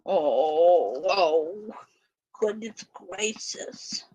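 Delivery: breathless whisper, winding down; a soft sigh turned into a whisper; hushed relief into the puppy's fur. Real, not acted. Cuddling puppy after angry rant.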